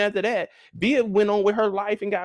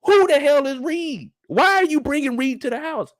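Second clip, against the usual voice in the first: exasperated; 7 semitones higher, 3 dB louder than usual. Acted. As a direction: drag out the disbelief. Exasperated rant.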